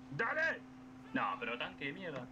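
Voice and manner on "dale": high, stretched "dale"; impatient goading. Real, not acted. Player daring a hidden enemy to peek out, impatient. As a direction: push it out high and insistent.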